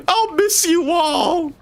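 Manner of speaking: high, slow, sing-song fake goodbye; insincere. Streamer mockingly bids the game characters farewell, insincere. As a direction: oversell the farewell so nobody believes it.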